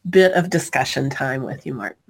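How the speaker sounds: sick, growly hoarse voice. Real, not acted. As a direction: talk through a growly sore throat. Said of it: "my growly voice".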